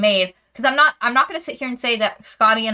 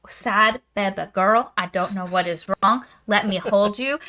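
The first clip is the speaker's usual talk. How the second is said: mock tender hero; 2 semitones lower than usual. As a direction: lightly put on a consoling love interest. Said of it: "he's like".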